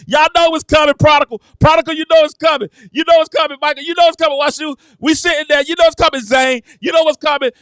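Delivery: repeated hype shouts at the team; mock yelling. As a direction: yell it at the TV like a fan. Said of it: "and I'm yelling".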